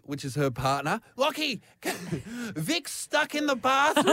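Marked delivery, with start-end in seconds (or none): 1.2-4.1 higher, slow, laughing through it. Retold or imitated. Housemate laughing while telling her partner about the trapped woman. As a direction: giggle out the news. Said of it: "I hear Lauren's voice go".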